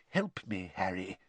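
low, quiet plea for help; muttered. Acted. Mr Weasley quietly asking Harry for help, muttered. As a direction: mutter it so the Muggle can't hear. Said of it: "he muttered".

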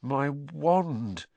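shaky, stunned voice. Acted. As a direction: let the voice shake in shock. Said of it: "said Ron in a shaky voice".

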